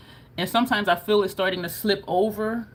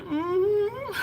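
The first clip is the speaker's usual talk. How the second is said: tearful mm-hmm; 13 semitones higher than usual. Retold or imitated. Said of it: "And I'm like".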